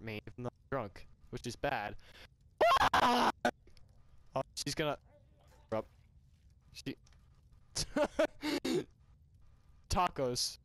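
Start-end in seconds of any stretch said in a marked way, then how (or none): 2.9-3.3 short, high, loud scream; sudden loud mock scream. Drunk character cutting off the talk, high loud scream. 7.7-8.8 high-pitched real laugh. Real, not acted. Reader amused by the drunk scene, high laugh.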